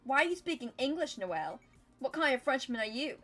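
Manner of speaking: high, loud teasing accusation; mock outrage. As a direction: scold her for not being French. Akasha mock-accuses Noelle.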